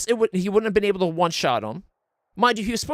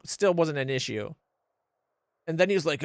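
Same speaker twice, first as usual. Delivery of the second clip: usual speaking voice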